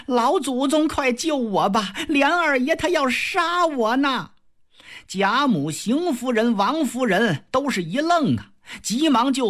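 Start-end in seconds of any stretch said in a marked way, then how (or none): 0.1-4.3 high wailing plea; crying plea. Acted. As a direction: sob it to grandmother. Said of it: "放声大哭".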